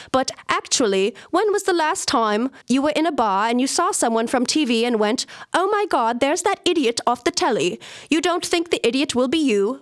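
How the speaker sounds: put-on Australian accent. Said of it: "try to do my best Australian accent".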